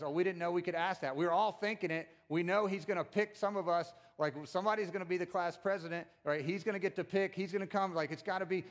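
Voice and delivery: worked-up imitation of jealous classmates; mock indignant disciples. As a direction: protest like someone beaten to the punch. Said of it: "They're mad because".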